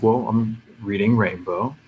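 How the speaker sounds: understated, uninterested reply; unenthused star. Retold or imitated. Star naming his work to an eager fan, unenthused. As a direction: answer the fan with little interest. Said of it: "he said everything like that".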